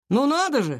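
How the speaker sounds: high, mock-amazed swoop; mocking scoff. A narrator's reading. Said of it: "хмыкнул Артём". (насмешливо, с притворным удивлением)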